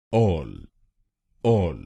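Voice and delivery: all said alone, slowly and clearly; first syllable of अल्टरनेटिव isolated as all; syllable demo. Shown as a demonstration. Teacher drills the first syllable, slow and clear. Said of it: "एएल हम बोलेंगे".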